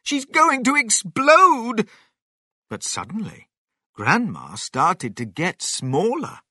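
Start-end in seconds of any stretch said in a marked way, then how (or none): 0.0-1.9 loud, high-pitched alarmed yell; shouting. A narrator's reading. Missus Cranky fears for Grandma, shouting at her husband. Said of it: "Missus Cranky shouted at her husband".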